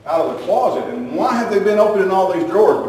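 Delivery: wife scolding husband over the mess, mildly exasperated; mock exasperated wife. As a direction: complain like a fed-up wife. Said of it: "Terry comes back and says".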